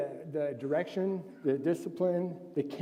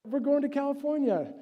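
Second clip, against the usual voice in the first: excited announcement; 10 semitones higher, 4 dB louder than usual. Retold or imitated. Father announcing trip.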